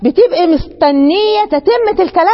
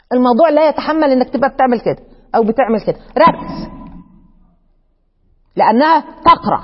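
ordinary talk, nothing marked

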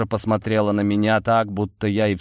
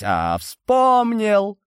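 much higher, drawn-out eureka; sudden remembering; 13 semitones higher, 3 dB louder, much slower than usual. A narrator's reading. Gnome suddenly recalls the sweet's name, high excited cry. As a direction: pounce on the memory.

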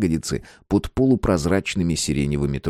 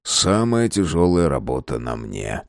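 slow mock grumble; put-upon, lightly grumbled; grumbling husband; 3 semitones lower, slower than usual. Husband getting up for the light, in a mild mock grumble. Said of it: "проворчал Антон".

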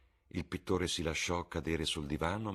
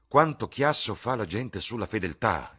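higher and louder, scornful exclamation; exclaiming; 6 semitones higher, 9 dB louder than usual. A narrator's reading. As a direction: throw it out with mock disdain. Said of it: "esclamò Lord Henry". (esclamazione più alta e forte, sprezzante)

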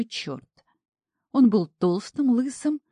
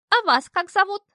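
much higher, louder coy falsetto; curious maiden; 13 semitones higher, 6 dB louder than usual. A narrator's reading. Imp posing as lady asking devil's name, high coy voice. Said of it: "полюбопытствовала мадемуазель".

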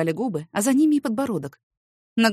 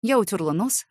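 ordinary delivery

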